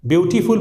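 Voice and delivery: "ब्यूटीफुल" as byoo-tee-fool; wrong three-syllable beautiful. Shown as a demonstration. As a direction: sound a full "tee" inside "ब्यूटीफुल". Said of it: "तीन syllable हो जा रहा है". ("ब्यूटीफुल" में बीच का "टी" पूरा बोलकर)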